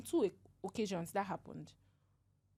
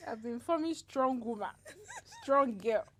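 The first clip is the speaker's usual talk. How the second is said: tearful laugh; half laughing, half crying; laughing through tears; 4 semitones higher, 3 dB louder than usual. Real, not acted. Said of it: "I was hearing it in your voice".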